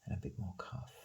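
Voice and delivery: trailing into a whisper; half-whispered note to himself. Real, not acted. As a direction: let it fade to a whisper as you draw. Artist murmuring while drawing.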